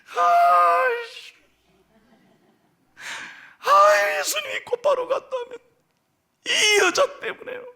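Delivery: high, anguished groan of a father; heartbroken father. Retold or imitated. Pastor acting Jairus hearing his daughter died, high anguish. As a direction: cry out as his hope collapses. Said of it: "억장이 무너지잖아요".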